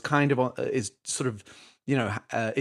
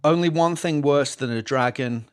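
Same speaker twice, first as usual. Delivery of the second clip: put-on Scottish accent. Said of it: "Do 'em in a Cockney accent".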